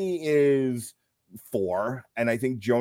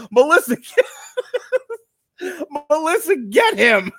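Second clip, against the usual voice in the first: high, louder yell cracking up; retold yell through laughter; 14 semitones higher, 6 dB louder, much slower than usual. Podcaster retelling a yell to his wife, laughing mock yell. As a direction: imitate your own yell while laughing hard. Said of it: "you just hear me yell".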